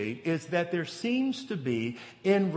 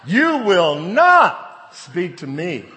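much higher and louder, slow and firm on back that train up; wife scolding; 6 semitones higher, 12 dB louder, much slower than usual. Retold or imitated. Wife shutting down her husband's rude tone, loud stern scolding. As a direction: put him firmly in his place.

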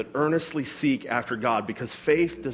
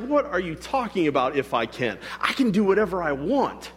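acted incredulous pushback; challenging. Jesus challenging the doubter, mildly incredulous. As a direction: question it in mild disbelief. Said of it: "he's challenging my mentality".

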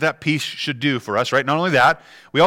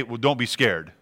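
dismissive brush-off; 4 semitones lower, 5 dB quieter than usual. Retold or imitated. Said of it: "I don't just say".

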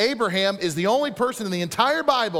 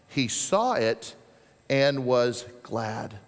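solemn, slow reading; 3 semitones lower, much slower than usual. Acted. Reading Jesus' words solemnly.

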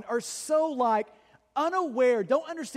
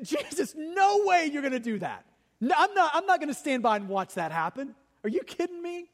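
acted-out disbelief, pitched up on the protest; indignant rebuke; 4 semitones higher than usual. Preacher voicing Peter rebuking Jesus, indignant. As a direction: object like a stunned disciple refusing to allow it. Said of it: "he actually tried to rebuke Jesus".

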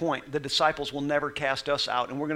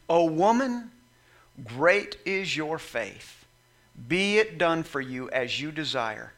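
tender praise; slower than usual. Retold or imitated. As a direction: bless her gently. Jesus praising the woman's faith.

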